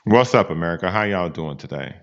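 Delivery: a hint of a smooth soul crooner; deep soul-singer voice. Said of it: "You just got your soul singer on right now".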